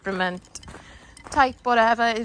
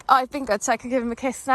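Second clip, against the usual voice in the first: higher, louder mock voice for the eager dog; dog's inner voice; 4 semitones higher, 5 dB louder, faster than usual. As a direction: play the dog bargaining for a kiss, pleased with itself. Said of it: "And then it was like".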